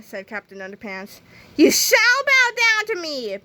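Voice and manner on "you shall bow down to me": high, drawn-out imperious yell; slow, stretched villain's command. A narrator's reading. Big Melvin demands the hero's submission, high yell. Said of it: "Big Melvin yelled".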